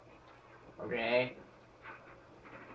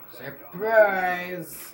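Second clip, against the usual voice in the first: shouted; 5 semitones higher, 6 dB louder than usual. Real, not acted. Ambushing enemies again.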